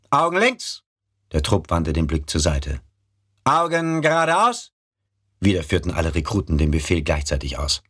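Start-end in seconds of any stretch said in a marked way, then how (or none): 0.1-0.8 barked parade-ground order; drill command. Acted. Drillkommando des Ausbilders. 3.4-4.7 barked parade-ground order; drill command. Acted. Drillkommando des Ausbilders.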